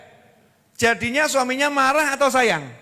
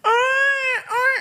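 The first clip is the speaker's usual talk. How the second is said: much higher, shouted scold; yelling parent. Retold or imitated. Parent yelling at a crying child, high shout. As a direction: snap at the child to stop.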